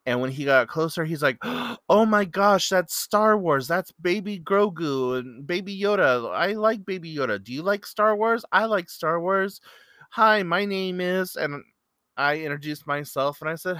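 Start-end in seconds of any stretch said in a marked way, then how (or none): 1.4-11.3 high, loud, gushing fan imitation; passionate, excited. Young man meeting a fellow Star Wars fan, gushing excitedly. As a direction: act out a thrilled fan rattling off his favorites. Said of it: "was just really passionate about it".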